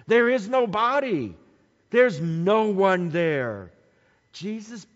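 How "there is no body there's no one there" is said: emphatic declaration. Real, not acted. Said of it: "preacher stressing the empty tomb".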